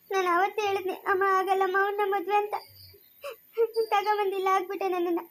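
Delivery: high, tearful lament to her mother; crying complaint. Acted. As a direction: pour out the grief through tears. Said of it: "ಅಳ್ಬೇಡ ಕಲ್ದಿರಮ್ಮ".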